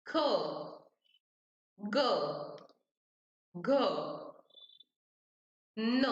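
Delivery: each letter क, ख, ग, घ, ह said alone with long pauses; slow letter drill. Shown as a demonstration. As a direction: sound out every consonant separately for students to repeat. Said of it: "मेरे साथ तुम लोगों को बोलना है". (धीरे-धीरे अक्षरों का उच्चारण)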